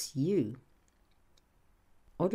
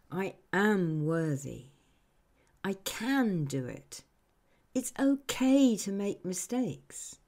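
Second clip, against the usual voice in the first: spoken affirmation. Shown as a demonstration. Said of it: "say out loud with me".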